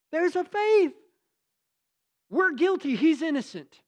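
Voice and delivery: loud, high, impassioned preaching; a preacher at full volume, voice climbing; full-force preaching. Acted. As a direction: drive the thief on the cross home from the pulpit. Preaches on the thief.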